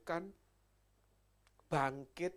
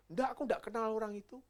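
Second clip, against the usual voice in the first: panicked denial; 6 semitones higher, 7 dB louder, faster than usual. Acted. Peter denying to accusers.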